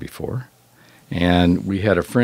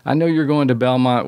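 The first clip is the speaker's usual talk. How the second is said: higher, eager imitation of a young girl; lightly voiced little girl; 6 semitones higher than usual. Girl asking her youth pastor for help, lightly voiced little girl. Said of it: "this little girl came up to me".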